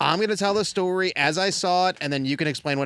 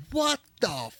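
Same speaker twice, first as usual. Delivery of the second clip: retold fury; 4 semitones higher, slower than usual. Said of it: "she's livid".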